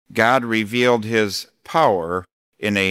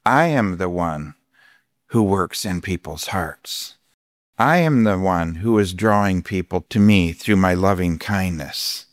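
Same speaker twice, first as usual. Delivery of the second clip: voice of God; 4 semitones lower than usual. Retold or imitated. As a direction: speak as God calming the pastor. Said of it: "And God says".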